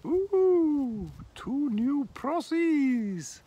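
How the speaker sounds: very high, loud squawking parrot; high cheeky talking bird. Acted. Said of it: "the parrot says".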